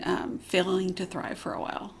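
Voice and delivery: whispered through tears, voice almost gone; choked-up whisper. Real, not acted. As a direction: barely get the words out, holding back tears. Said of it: "Sorry, I get a little emotional".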